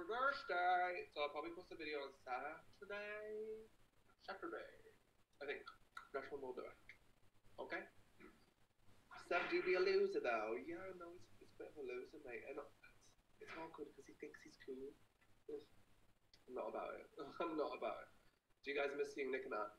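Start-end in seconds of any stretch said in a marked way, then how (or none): 0.1-4.7 put-on British accent, stretched vowels. Streamer telling fans about Saturday's video, mock British accent. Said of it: "start talking in a British accent". 9.3-18.1 put-on British accent. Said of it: "start talking in a British accent".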